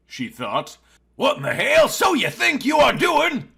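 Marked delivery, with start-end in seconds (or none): 1.2-3.5 high, loud alarmed shout. A narrator's reading. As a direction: yell it at her in shock. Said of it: "shouted Isaac".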